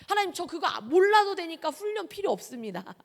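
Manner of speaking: lightly mock a cheeky refusal; young preacher refusing God's training, cheeky; cheeky prayer. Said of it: "그렇게 건방지게 기도했었던".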